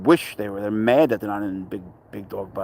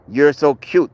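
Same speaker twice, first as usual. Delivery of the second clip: cooing at cat; 4 semitones higher, 7 dB louder, slower than usual. Acted.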